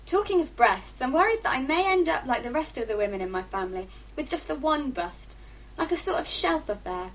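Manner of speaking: expressive first-person story reading; book reading. A narrator's reading. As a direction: read it as a teenage diary narrator.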